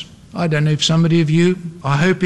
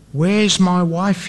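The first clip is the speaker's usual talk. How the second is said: usual speaking voice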